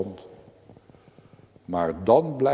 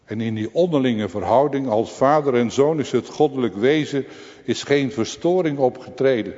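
higher and louder, building sermon intensity; rising fervent preaching; 5 semitones higher, 5 dB louder, faster than usual. Acted. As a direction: drive the story toward the cry. (vurig prekend, steeds hoger en luider)

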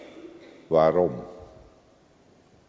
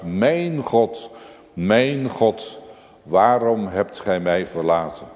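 anguished cry; 3 semitones higher than usual. Retold or imitated. Jesus calling out from the middle cross, anguished cry. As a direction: cry out the forsaken question. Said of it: "roept de Zoon des Vaders uit".

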